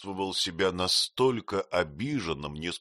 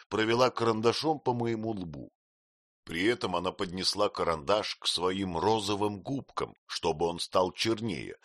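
ordinary delivery, nothing marked

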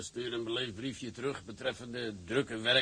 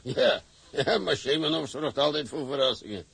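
laughing; 7 dB louder than usual. Acted. Boss laughing at news.

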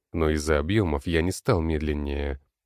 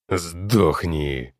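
monster shout. Acted. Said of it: "кричит некромант".

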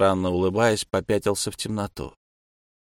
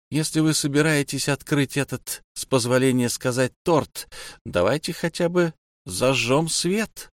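firm; 4 semitones higher than usual. Acted. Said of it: "голосом, нетерпящим возражений".

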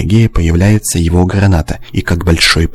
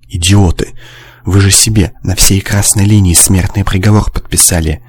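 ordinary delivery

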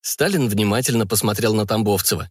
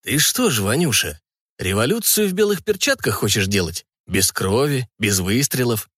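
sinister voice. Acted. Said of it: "зловещим голосом произнёс". (слегка зловещим голосом)

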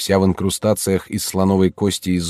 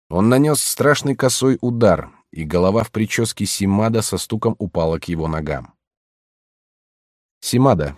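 ordinary talk, nothing marked

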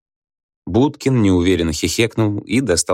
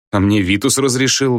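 a silly, higher answer; foolish; 6 semitones higher than usual. A narrator's reading. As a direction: say it like a clueless fool. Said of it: "глупо ответил Будкин". (глупо, по-дурацки)

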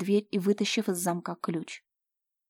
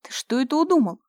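higher, louder alarmed demand; 6 semitones higher, 7 dB louder than usual. Acted. Mira alarmed at Fyodor's scheme. Mother alarmed at his plan.

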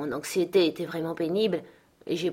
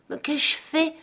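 tout en larmes; 10 semitones higher, slower than usual. Acted. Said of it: "tout en larmes".

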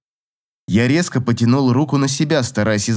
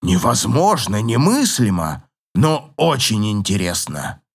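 excited scholar; 2 semitones lower than usual. A narrator's reading. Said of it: "с горящими глазами исследователя".

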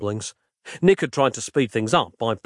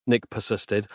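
usual speaking voice

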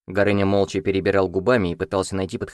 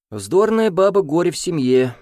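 higher, louder emphatic agreement; exclaiming agreement; 9 semitones higher, 4 dB louder than usual. Acted. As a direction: exclaim it with sympathy. Prokol agreeing loudly. (сочувственное восклицание)

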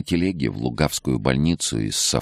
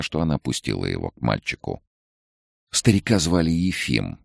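plain reading voice

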